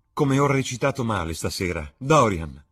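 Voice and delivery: put-on thrilled young actress exclaiming. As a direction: burst it out breathless with joy. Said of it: "esclamò".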